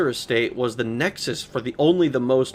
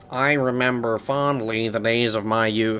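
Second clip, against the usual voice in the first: line read in cartoon voice; 2 semitones lower than usual. Reading a game line aloud after chat asks: Squidward voice. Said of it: "Read it like Squidward".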